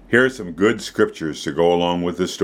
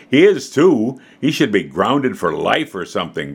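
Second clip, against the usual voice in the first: grumbling. Acted. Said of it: "grumbled Alicia".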